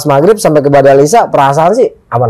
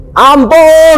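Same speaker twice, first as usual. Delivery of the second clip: high, drawn-out begging cry; mock cry for mercy; retold frightened plea; 12 semitones higher than usual. Hiker at the back begging mercy, high frightened cry. Rear hiker begs in fear.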